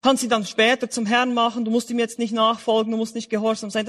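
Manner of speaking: mock easygoing teacher, evenly pitched patter; cheap-grace preacher. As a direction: lightly imitate someone making it all sound easy. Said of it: "die billige Gnade lehren".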